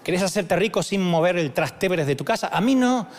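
a hint of a fast pitchman; mock a multilevel recruiter's pitch; pushy salesman. Recruiter pitching Dante to get rich fast, lightly mocked. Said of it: "no se tienen que acercar con esa táctica".

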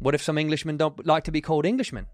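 imitated English driver's accent; put-on Englishman's British accent. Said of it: "the accent you just did".

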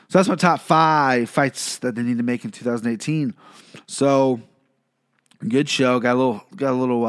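slightly blocked nose; nasally from a lingering cold. Real, not acted. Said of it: "if I sound a little nasally".

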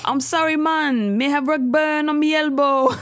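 bad Jamaican accent. Podcaster imitating the TV show's lover, bad Jamaican accent. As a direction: put on a cartoonish Jamaican accent. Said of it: "a really bad Jamaican accent".

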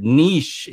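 niche rhyming with leash; niche with a long vowel, like "neesh"; newer pronunciation. Shown as a demonstration. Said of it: "that niche is a relative newcomer".

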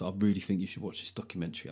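earnest mate. Retold or imitated. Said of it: "sits you down and goes".

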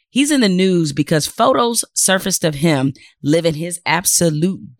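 measured, emphatic news-commentary delivery; deliberate monologue with pointed pauses; scripted commentary read. Acted. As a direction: read it out like an indignant editorial, leaning on key words. Host reads scripted commentary segment.

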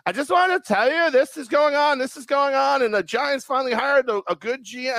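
put-on high eager young woman; imitating an eager young woman; high girly voice. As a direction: chatter on like an excited college girl. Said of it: "Lindsay, don't FaceTime me".

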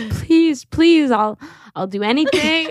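high-pitched, hammed-up begging; mock plea to mom; pleading. Acting begging mom to fetch her.

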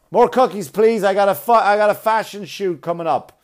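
hammed-up greedy plus size model. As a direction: beg for cookies like a spoiled model. Lazy model begging cookies.

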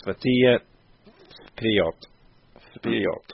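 Svitir, pause, vperiod, trying the last word twice; halting Russian attempt. Shown as a demonstration. Host struggling with difficult Russian, Svitir vperiod sounded out. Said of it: "That's really difficult".

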